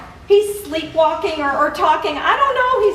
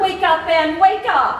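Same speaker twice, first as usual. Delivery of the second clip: urgent; 4 semitones higher, 5 dB louder than usual. Acted. Wife shakes sleepwalking husband.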